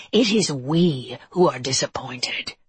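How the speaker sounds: rasping, half-whispered monster voice; raspy monster. A narrator's reading. Monster answering Harker for his kind, whispery rasp. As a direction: rasp it out with little voice. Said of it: "his voice a rasp".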